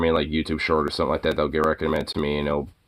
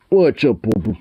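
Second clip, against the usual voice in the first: high pet talk; 4 semitones higher, 5 dB louder than usual. Real, not acted. Greeting the dog.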